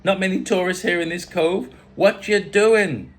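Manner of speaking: loud, high mock islander voice; badly faked Caribbean accent, emphatic. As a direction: quiz the tourist in a put-on Caribbean accent. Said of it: "Bad accent".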